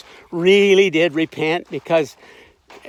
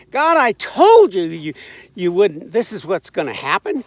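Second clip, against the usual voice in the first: angry complaint; 5 dB louder than usual. Retold or imitated. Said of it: "He says".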